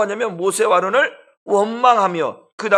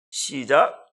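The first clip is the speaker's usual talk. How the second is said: normal talking voice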